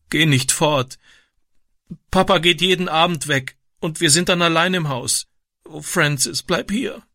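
very high, tearful begging; tearful pleading. A narrator's reading. Girl pleading with her brother, high and tearful. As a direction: beg him to stay through tears. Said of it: "schluchzte sie".

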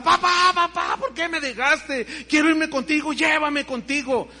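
high, loud anguished wail to her father; grieving cry. Retold or imitated. Daughter at the burial wailing for her father, high and loud. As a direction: cry out to the dead father in despair. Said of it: "volvía en sí y gritaba".

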